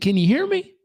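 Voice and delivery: lightly voiced old drifter; old man voice. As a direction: ask like a gentle old man.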